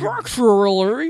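Structurally drawn out, slow and rising; mocking Structurally. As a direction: stretch Structurally slowly with a rise. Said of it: "what is happening with your alliteration".

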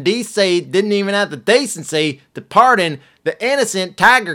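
high, loud furious ranting impression; hammed-up raging tirade, pitched high; Tiger King rant. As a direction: cuss him out like an angry zoo owner. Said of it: "here's the Tiger King's response".

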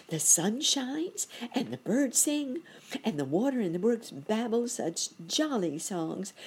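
high-pitched merry cricket voice; cheerful little cricket, bubbling toward laughter; jolly cricket. A narrator's reading. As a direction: lift the pitch, brimming with jollity.

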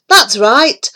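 a hint of a vain toad; lightly voiced boastful toad. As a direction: show off proudly. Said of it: "he said".

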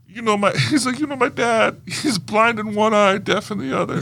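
quoting Jared Leto's character. Retold or imitated. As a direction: deliver the line in character. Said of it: "And he's like".

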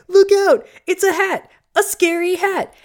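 high, loud hammed-up alarm; mock panic. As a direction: cry out in fake fright at a hat. Kano mocking Kung Lao's hat.

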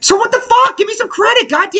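high-pitched angry demand for credit; indignant outrage. Real, not acted. Demanding credit from the doubting friends, high indignant shout. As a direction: shout it out, genuinely fed up. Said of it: "Do you see how mad he is?".

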